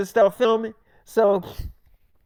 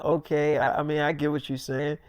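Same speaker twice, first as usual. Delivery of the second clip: meek placating; 7 semitones lower, 7 dB quieter than usual. Retold or imitated. David placating Millie.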